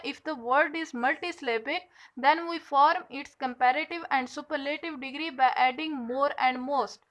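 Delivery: reading the rule out very slowly; slow dictation. Shown as a demonstration. Teacher dictating to her class, very slow. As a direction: spell out the rule word by word for students to copy. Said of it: "teacher dictating a rule".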